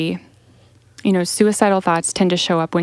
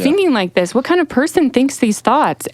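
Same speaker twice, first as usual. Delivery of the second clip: higher and louder, a blaming, judgmental question; mock-accusing the way people say it; 6 semitones higher, 3 dB louder, faster than usual. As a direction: fire the questions at them like an accusation. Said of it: "that's how people say it".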